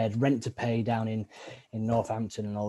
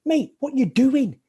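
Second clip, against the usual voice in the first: bloke; 11 semitones higher, 8 dB louder, slower than usual. Retold or imitated. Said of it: "these blokes are like".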